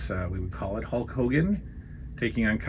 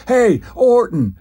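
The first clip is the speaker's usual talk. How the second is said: slow, much higher, loud tough-guy call; Orndorff impression; 12 semitones higher, 7 dB louder, slower than usual. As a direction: drag it out, calling him over. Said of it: "Paul Orndorff stops it and goes".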